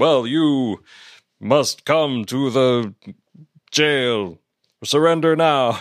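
stiff, stilted cartoonish acting. Mocking a guard in a staged fight scene, imitating stilted line delivery. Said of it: "stilted the way he talks".

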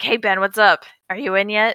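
imitated whisper. Retelling a scene where Tala whispers to Obi-Wan: imitating Tala whispering. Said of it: "she starts whispering to Obi-Wan".

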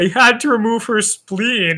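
fighting back laughter. Speaker recounts a film scene for listeners who haven't seen it, trying not to laugh. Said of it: "I can't even like say it with a straight face".

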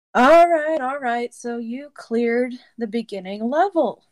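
mock-sarcastic and dry. Retelling what he said while taking his coat off, mock-sarcastic and dry.

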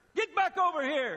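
high-pitched screaming. Retelling how he taught her to raise her voice, imitating someone screaming. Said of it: "And he's screaming at Dobbsy".

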